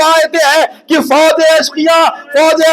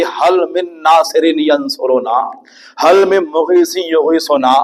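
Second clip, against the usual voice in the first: call for help; 10 semitones lower, slower than usual. Acted. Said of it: "ایک آواز بلند کی".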